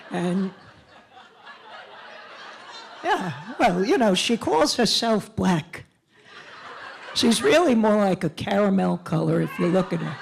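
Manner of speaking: a lightly voiced chatty older white lady, giggling; older white lady character. Older white lady character chatting nervously to the rally crowd, giggling. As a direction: play a well-meaning, awkward older white lady.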